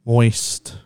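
low, lingering single word; drawn-out, savored delivery; pointedly savored. Real, not acted. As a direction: relish the word moist. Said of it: "Why do you gotta say it like that".

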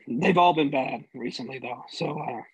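talking past a throat that swallowed wrong; strained voice after choking on water. Real, not acted. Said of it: "glass of water went down the wrong way".

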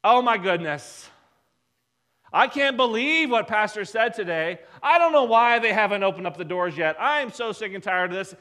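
mock gossipy outrage, loud bursts; indignant griping. Churchgoers call friends to gripe after church, mock indignant. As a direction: act out a fed-up churchgoer complaining.

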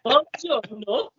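slow, high-pitched Borat Italian; Borat-style Italian accent. Pretend. Teased presenter redoes his greeting, Borat-style Italian accent. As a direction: drag out the Italian as Borat would. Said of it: "it's Borat".

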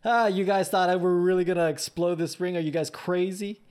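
playing a wrestler gloating over a big prank; mock prankster. Wrestler passing the botch off as a prank, mock taunting. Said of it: "make it a big prank, and say".

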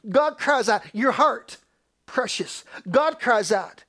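emphatic preacher's proclamation; crying out. Acted. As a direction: punch each cry, ease off between.

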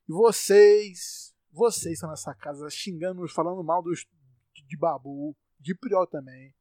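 loud, furious scolding; real rage, the words shouted out; fed-up podcaster yelling at the house; angry yelling. Real, not acted. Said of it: "meu sotaque só aparece quando eu tô puto".

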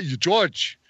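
mock a teacher telling a student to get working; Kershner impression. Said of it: "Imagine your teacher telling you that".

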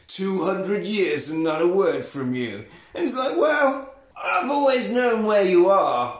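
put-on drawn-out sass between old rivals; sassy retold exchange. Two old vampires trading digs, sassy. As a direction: trade sassy jibes, lightly acted. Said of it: "they're just sassing".

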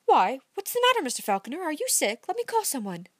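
Amy startled by Dick's turn, anxious; alarmed young woman. A narrator's reading. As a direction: rush to help in concern.

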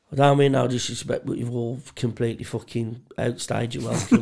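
deadpan, level telling-off; straight-faced. Retold or imitated. Drunk host to guests who won't leave, straight-faced. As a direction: deliver the rude request with a straight face. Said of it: "I did this straight-faced as well".

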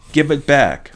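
loud, high demand; crying out. A narrator's reading. Anger wants her missing eye from the boy, loud high cry. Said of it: "Anger cried".

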